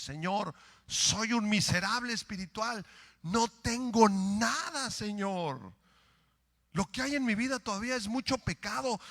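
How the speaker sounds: fervent repentant prayer, rising and falling; earnest prayer. Shown as a demonstration. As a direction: pour out a humble confession to God.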